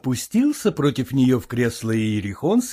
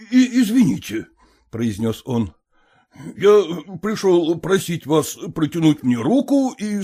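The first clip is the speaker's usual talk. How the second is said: put-on stiff elderly suitor; 3 semitones higher than usual. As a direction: recite the proposal like a form. Stumbling proposal, low voice.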